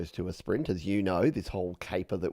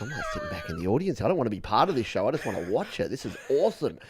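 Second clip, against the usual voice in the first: fast, eager gush; excited aside; 3 semitones higher, faster than usual. Retold or imitated. Guest imitating himself watching the hosts chat, fast and eager. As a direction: rattle it off like a thrilled fan. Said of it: "I'm like".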